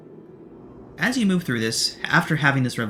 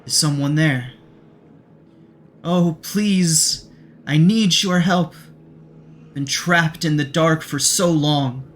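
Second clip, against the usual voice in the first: higher, slow feminine voice calling for help; pleading feminine voice; 4 semitones higher, 4 dB louder, slower than usual. Acted. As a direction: plead slowly in a raised, feminine voice. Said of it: "A soft, feminine voice sounds out".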